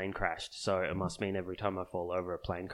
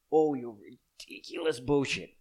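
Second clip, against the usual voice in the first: higher, louder and slower, spitting contempt; angry outburst; 4 semitones higher, 4 dB louder than usual. Real, not acted. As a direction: let the frustration boil over. Peak of angry rant.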